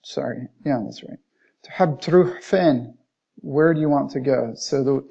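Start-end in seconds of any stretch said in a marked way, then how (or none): 1.6-3.0 Egyptian Arabic. Shown as a demonstration. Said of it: "In the Egyptian dialect".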